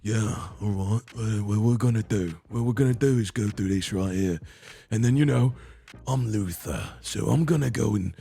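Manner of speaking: put-on London British accent; Idris Elba. Shown as a demonstration. Host imitating an actor as Luther, British accent. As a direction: play a British TV detective, accent on. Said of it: "then there's Idris Elba".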